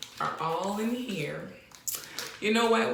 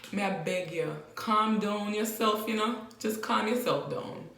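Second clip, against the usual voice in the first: Jamaican patois; 2 semitones higher than usual. Shown as a demonstration. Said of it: "how you say that in Patois".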